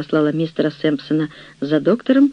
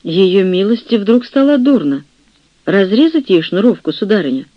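a touch of flustered worry, a bit louder; anxious chaplain; 3 semitones higher, 3 dB louder than usual. Acted. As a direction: fret out loud, eager to help. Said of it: "восклицал капеллан простодушно и с величайшей тревогой".

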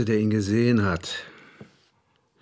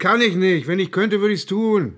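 higher, louder, helpless; agitated admission; 5 semitones higher, 4 dB louder than usual. Acted. Colleague admitting he has no other idea, agitated. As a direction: blurt it out in distress.

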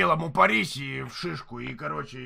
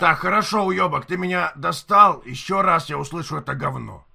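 angry yelling; 6 dB louder than usual. Acted. Threatening neighbour over loud music.

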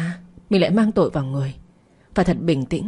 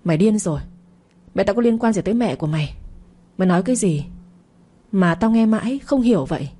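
screaming; 3 semitones higher, faster than usual. Acted. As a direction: shriek in angry confusion. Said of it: "gào lên".

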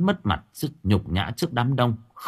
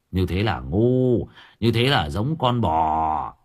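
mocking thug; 4 semitones lower than usual. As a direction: lecture them with false pity. Dũng mocks the parents. (Dũng giả vờ thương hại, chậm rãi)

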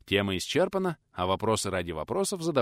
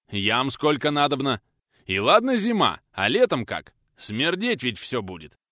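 a voiced village man, raised and grumbling; lightly voiced peasant complaint; 5 semitones higher, 7 dB louder than usual. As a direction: argue the point like a stubborn peasant. Peasant voiced arguing about pits.

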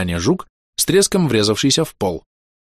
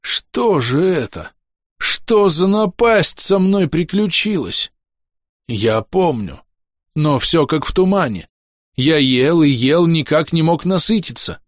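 dazed mayor; 6 semitones higher, slower than usual. Acted. Cursed mayor recalls his deeds.

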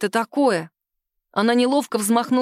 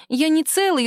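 higher, timid babbled excuse; babbling; 6 semitones higher than usual. Acted. Sima excuses herself to the angry boss, babbling. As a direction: mumble a meek excuse. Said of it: "лепетала Сима".

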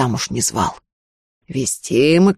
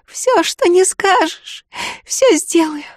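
a hoarse, slow, much higher but firm vow; hoarse resolve; 13 semitones higher, slower than usual. A narrator's reading. The tearful girl swears obedience to the sorcerer, hoarse and resolute. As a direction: agree through a throat raw from crying.

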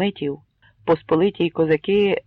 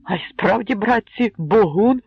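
recognition; 5 semitones higher, 3 dB louder than usual. Acted. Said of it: "почулося в натовпі".

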